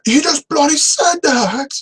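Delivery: a hammed-up exasperated yelp; exasperated outburst. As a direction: blurt it out in mock disbelief. Mocking the repeated voiceover line.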